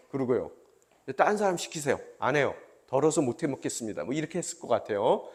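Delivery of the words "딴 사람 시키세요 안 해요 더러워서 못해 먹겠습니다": mock grumbling. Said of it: "원망하고 이렇게 손가락질 했을 것 같아요".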